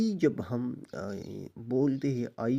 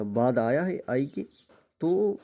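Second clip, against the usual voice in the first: ordinary talk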